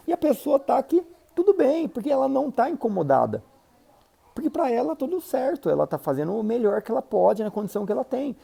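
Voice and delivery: high, easygoing impersonation of the unbothered colleague; carefree other person. Retold or imitated. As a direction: play the person who sees no problem at all.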